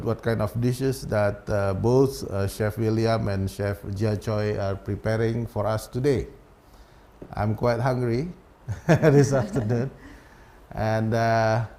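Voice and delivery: speaking muffled through a face mask. Real, not acted. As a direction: talk through a face mask covering the mouth. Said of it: "I cannot take off my face mask".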